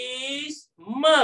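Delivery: patriotisme said very slowly; slow repeat. Shown as a demonstration. Teacher repeating the word slowly for the class. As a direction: stretch patriotisme again. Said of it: "ejaan dia apa tadi".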